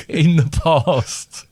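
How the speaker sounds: slow, high West Country voice; West Country accent. Shown as a demonstration. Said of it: "West Country".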